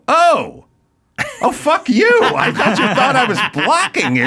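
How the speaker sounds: retorting to the driver, laughing; laughing disbelief. Retold or imitated. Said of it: "I go".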